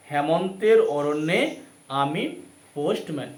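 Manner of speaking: loud, slow dictation of titles; dictating. Shown as a demonstration. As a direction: call out each title for notes. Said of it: "heading দাও".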